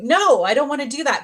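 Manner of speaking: high, loud mock refusal; retold protest. Girl refusing God on a packed bus, emphatic protest.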